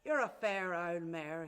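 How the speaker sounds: hint of a drunk man's slow delivery; drunken husband. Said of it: "and him drunk".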